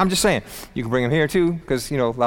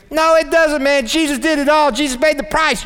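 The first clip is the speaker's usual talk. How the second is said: preaching loud; 11 semitones higher, 4 dB louder than usual. Real, not acted. Preaching climax.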